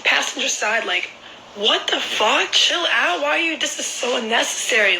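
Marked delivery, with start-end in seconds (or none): 1.6-5.0 retold shocked protest. Retold protest at his outburst.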